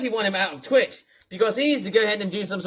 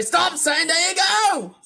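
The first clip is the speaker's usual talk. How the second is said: higher shout, less forced; milder yell; 6 semitones higher than usual. Shown as a demonstration. Redoing the line with less voice acting, a milder yell. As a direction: say it as a real person would. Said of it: "less voice acting".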